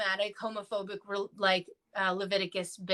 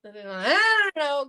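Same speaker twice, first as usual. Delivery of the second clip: slow, drawn out and louder; hesitant Moses; 4 semitones higher, 7 dB louder, much slower than usual. Retold or imitated. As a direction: stall for time, unsure. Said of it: "Moses was like".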